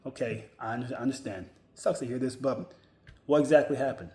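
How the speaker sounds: mildly subdued, composed acceptance leading into a question; respectful and polite. Pretend. Employee to boss on being laid off, respectful and polite. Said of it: "say it in a very respectable, polite way".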